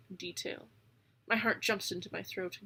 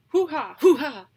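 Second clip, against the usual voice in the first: raven call; 6 semitones higher, 13 dB louder than usual. A narrator's reading.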